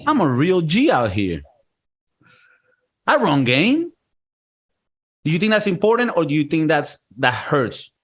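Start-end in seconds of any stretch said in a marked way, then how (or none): 0.1-3.9 mock self-hype. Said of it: "actually saying to yourself sometimes".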